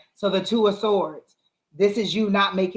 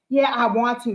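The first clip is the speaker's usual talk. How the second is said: wishful wanting; 4 semitones higher than usual. Shown as a demonstration. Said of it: "That's not a positive, um, affirmation".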